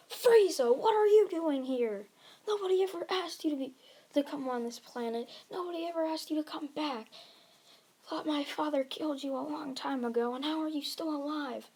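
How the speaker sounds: high-pitched indignant challenge, bursting out then easing off; acted yell. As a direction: yell at an old enemy, mostly held back in volume. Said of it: "and yells".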